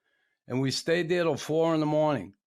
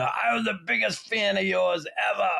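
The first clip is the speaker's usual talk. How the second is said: higher, gushing fan voice; mock gushing fan; 7 semitones higher than usual. Fan gushing to a player at the bar, mock gushing. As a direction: play the overeager fan gushing.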